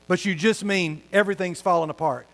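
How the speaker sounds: ordinary delivery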